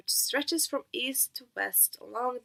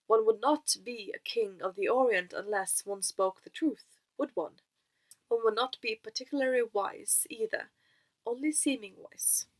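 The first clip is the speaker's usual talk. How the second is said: playful wise man. Acted. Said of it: "He was so funny when he talked".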